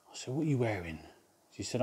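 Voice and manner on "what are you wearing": mock flirty. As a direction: murmur it like a cheeky flirt. Retold flirty prank on caller.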